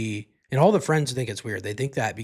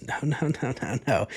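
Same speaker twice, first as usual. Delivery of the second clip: retold refusal; 2 semitones higher, 3 dB quieter than usual. Girlfriend answering his question about her dad, first refusal. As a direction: act out her first refusal, not yet loud. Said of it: "she just keeps louder and louder".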